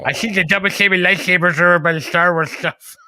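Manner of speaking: whispered lisping store clerk; whispered mimicry. Mocking the Walmart clerk's answer in a whisper. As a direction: breathe it out as a mock of the clerk. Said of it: "when she mimicked him".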